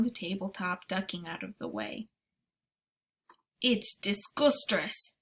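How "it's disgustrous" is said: gurgling. Acted. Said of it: "the B F G gurgled".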